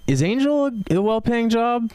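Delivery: a light high-pitched naive question; curious question. Retold or imitated. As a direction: ask the angel like a hopeful job seeker. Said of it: "I'd be like".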